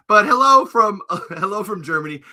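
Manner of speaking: put-on lightly German-accented greeting; a hint of a German accent. Greeting a fan from Germany in a mock accent. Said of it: "thank you for loving the accent".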